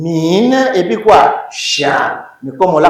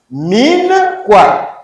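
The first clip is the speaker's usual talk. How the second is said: high, loud prompt to the class; 10 semitones higher, 5 dB louder than usual. Acted. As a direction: coax the answer out, rising loud. Teacher prompts class answer. (relance vive et aiguë)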